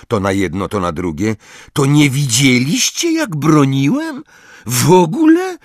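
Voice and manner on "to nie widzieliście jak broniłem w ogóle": higher, rising wounded disbelief; Ron hurt. Acted. Ron realising his friends missed his saves, hurt. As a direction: sound crushed and indignant.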